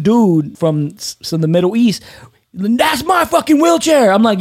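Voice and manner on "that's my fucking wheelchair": slow, high furious yell, stretching each word; angry shout. Retold or imitated. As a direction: bark it out like a stranger claiming the chair. Angry stranger fighting over wheelchair.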